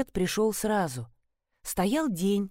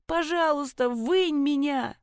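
begging; 6 semitones higher, slower than usual. Acted. Trapped woman begs from pit.

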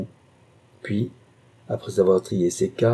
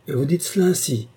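exclaiming; 6 semitones higher than usual. Acted. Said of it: "s'écria-t-il".

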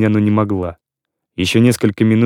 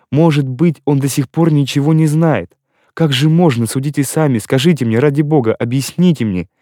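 agitated pleading; 3 semitones higher than usual. Acted. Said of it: "закричала она".

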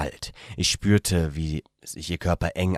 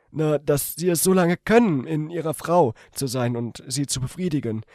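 much higher female character voice; 10 semitones higher, 3 dB louder than usual. A narrator's reading. The woman tells him in bed, in a much higher female voice. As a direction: voice her as a shy young woman, gently.

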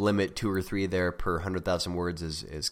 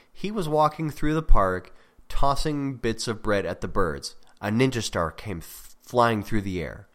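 example without suspense; 5 dB louder than usual. Shown as a demonstration. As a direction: read the example straight through at normal pace. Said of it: "without the word suddenly".

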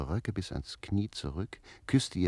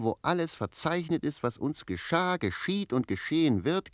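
bitter lament; 8 semitones higher than usual. Acted.

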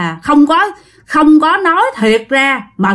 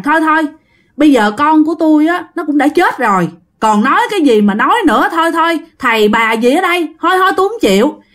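raised pitch, quick insistent refusal; mild protest; 4 semitones higher, faster than usual. Retold or imitated. Mother turning away the grieving woman, quick raised refusal. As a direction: brush it all off, getting higher and faster.

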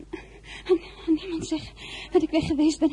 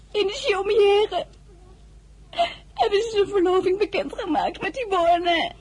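crying; 3 semitones higher than usual. Acted. Girl telling of betrayal.

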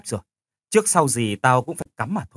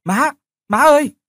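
much higher, louder, slow anguished cry; shocked cry; 14 semitones higher, 8 dB louder than usual. Acted. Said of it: "Tôi bàng hoàng". (tiếng kêu thảng thốt, đau đớn)

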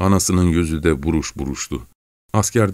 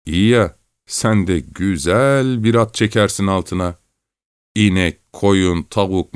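lightly voiced rough boatmen, a bit higher; character dialogue; 4 semitones higher than usual. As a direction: talk like two men bantering in a boat.

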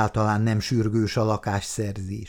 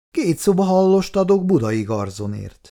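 higher-pitched, as if deciphering a placard; reading out a sign; 8 semitones higher, 4 dB louder than usual. A narrator's reading. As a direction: read the sign aloud in a raised pitch. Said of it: "betűzte Péteri a tábla felírását". (táblafeliratot betűzve)

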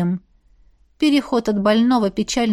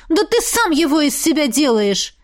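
higher, sharp outburst; exploding; 6 semitones higher than usual. A narrator's reading. Miranda exploding at jealous Jaf, sharp higher outburst. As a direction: snap back at him. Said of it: "взорвалась она".

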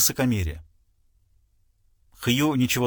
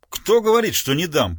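higher, louder sudden boom; thundering; 3 semitones higher, 3 dB louder than usual. Acted. Hugh to the father, a thundering retort. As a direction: roar it back in defiance. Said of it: "прогремел Хью".

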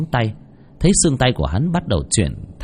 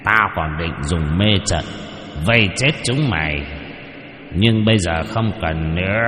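skeleton voice; 3 semitones lower than usual. Acted. Skeleton demon threatens the group.

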